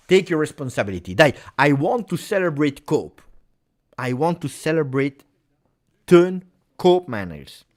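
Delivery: rally the player with eager hope; excited urging. Real, not acted. Urging player before free kick.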